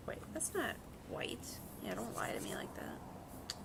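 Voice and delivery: hushed whisper to the paint; slow whispered aside, half to herself. Real, not acted. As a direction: whisper it, scolding the colour privately. Muttering at paint colour.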